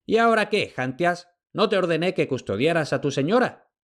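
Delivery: high, commanding call to the slave; a hint of a stern lord; imperious shout. A narrator's reading. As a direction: master barking orders. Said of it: "gritó imperiosamente".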